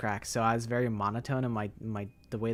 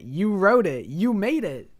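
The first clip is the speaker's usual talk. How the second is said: exasperated; 8 semitones higher, 8 dB louder than usual. Real, not acted. Arguing with chat over username.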